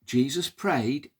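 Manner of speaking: ordinary delivery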